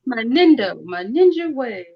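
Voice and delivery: lightly acted anime hero's motto, stretched out; catchphrase quote. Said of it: "he sticks to his ninja way".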